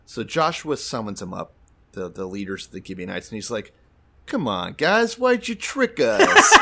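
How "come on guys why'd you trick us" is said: laughing mock anger. Joshua voiced mock-angry, laughing.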